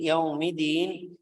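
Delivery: slow Yaumiddin with held dd; doubled d. Shown as a demonstration. Teacher slows Yaumiddin for students. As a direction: press the dd in Yaumiddin.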